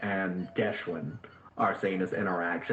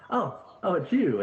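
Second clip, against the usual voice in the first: surprised recognition; 9 semitones higher than usual. Acted. GM voices surprised NPC.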